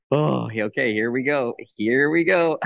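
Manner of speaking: excited anticipation. Retold or imitated. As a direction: build up as if bracing for a big moment. Acted reaction as the big talk begins.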